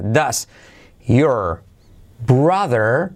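"does... your... brother... have a car" with pauses between words; careful textbook delivery of "does your brother have a car"; word by word, each word fully pronounced; separated words. Shown as a demonstration. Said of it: "Por separado así".

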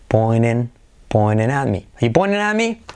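"pointing" as "poinen", built up into the question; T skipped. Shown as a demonstration. Teacher drilling learners, "pointing" with no T. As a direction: repeat "pointing" without the T, then the whole question. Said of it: "te puedes saltar la T".

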